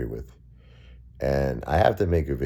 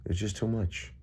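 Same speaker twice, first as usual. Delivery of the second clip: cracking, quiet and choked up; fighting back tears; voice breaking; 5 semitones higher, 6 dB quieter than usual. Real, not acted. Grieving, losing his wife.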